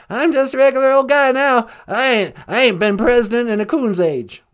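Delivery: folksy Texan Bush voice; lightly voiced Bush; George W. Bush impression. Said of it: "George W. Bush".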